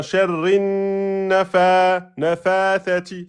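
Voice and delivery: "nafathati" with long vowels but a single f; prolongation without shadda. Shown as a demonstration. Teacher mimicking a student's slip, "nafathati" lengthened, shadda forgotten. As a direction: stretch "sharrin", then draw out "nafathati" without doubling the f. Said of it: "vous mettez la prolongation, vous oubliez la shidda".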